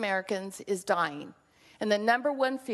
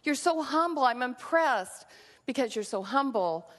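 mock praise. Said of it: "God didn't say".

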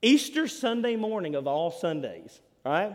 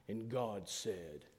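low, slow imitation of a solemn preacher; Adrian Rogers booming preacher; 8 semitones lower, 13 dB quieter, much slower than usual. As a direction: intone it gravely, drawn out, without raising volume. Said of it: "this big booming".

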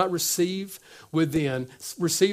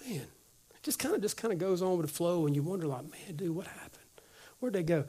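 softer, near-whispered puzzlement; hushed wonder; 9 dB quieter than usual. Retold or imitated. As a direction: wonder quietly where they went.

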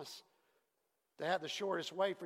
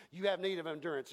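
fast, plain "You have need of endurance"; quick restatement; 3 dB quieter, faster than usual. Shown as a demonstration. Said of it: "It says".

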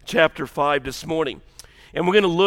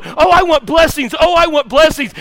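put-on higher, louder childish whine; whiny blessing chaser; 8 semitones higher, 6 dB louder than usual. Preacher mocking believers who quit the process, childish whine. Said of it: "you go".

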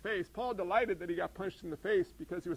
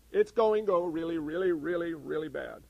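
fading from loud to a low mutter of doom; sarcastic dread; mock gloom; 3 semitones lower, 3 dB louder than usual. Preacher parodying the pessimist, mock gloom. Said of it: "Or, no, it's not".

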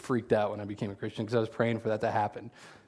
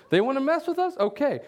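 much higher, louder, fired-up indignation; mock outrage; 12 semitones higher, 3 dB louder than usual. Pastor hamming up his revenge wish, fired up. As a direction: play up wanting revenge. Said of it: "That's what I'd be saying".

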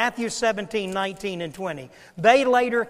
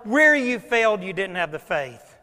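emphatic; 2 semitones higher, 4 dB louder than usual. Retold or imitated. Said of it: "what he's saying to these disciples is this".

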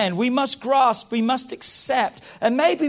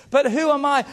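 David's cry; 5 semitones higher, 4 dB louder than usual. Retold or imitated. David's protest, acted by the preacher.

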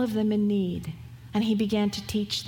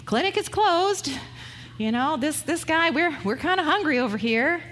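higher, brisk mock-impatient voice; impatient disciples; 5 semitones higher than usual. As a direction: toss it off like tired workers wanting to quit. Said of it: "they're ready to".

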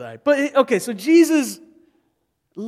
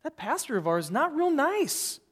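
higher, mock-grumbling gossip; mock indignant; 3 semitones higher than usual. Imagined church member complaining about pastor, indignant gossip. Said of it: "You'd be like".

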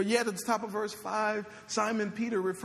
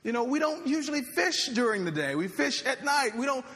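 a tired fisherman protesting to his master; exasperated fisherman; 4 semitones higher than usual. Acted. Fisherman Simon protesting to Jesus, exasperated and higher. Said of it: "adding my own kinda inflection on that".

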